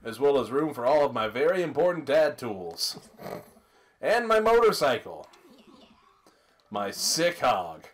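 slow cheesy sales pitch; cheesy announcer voice. Acted. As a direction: hype the motorcycle like an ad. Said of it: "cheesy announcer voice".

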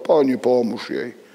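ordinary talk

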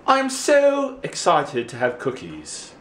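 high, slow, stretched delight; high drawn-out kiddie excitement; put-on excitement. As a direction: draw out the pretend thrill. Redoes play-acted excitement about cookies.

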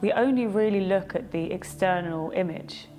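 calm guided-meditation delivery with long pauses; unhurried meditation guide, pausing after each thought. Acted. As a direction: lead them gently through a reflection, leaving space between phrases.

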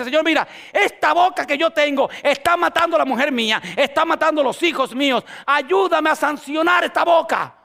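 rising shout of prayer; fervent prayer. Pretend. Father praying for help with his words, shouting. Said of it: "usted como superhombre dice".

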